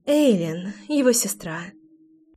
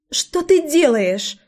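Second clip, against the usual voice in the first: unnaturally ringing, high and slow squeak; ringing squeaky voice; 7 semitones higher, slower than usual. A narrator's reading. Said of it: "неестественно звенящим голосом пропищала она".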